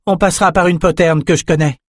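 high-pitched calling on the run; shouted direction. A narrator's reading. Lila tells fleeing Bannon the route, calling out. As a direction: call the plan back to a companion. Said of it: "cria Lila".

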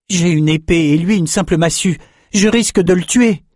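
high, urgent objection; protesting young fighter. A narrator's reading. Swordsman fears killing his club-armed friend, urgent protest.

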